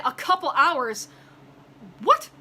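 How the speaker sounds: drawn-out, disbelieving repeat, then a sharp "what"; incredulous echo. Retold or imitated. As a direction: throw the words back in disbelief. Incredulous echo of agent's words.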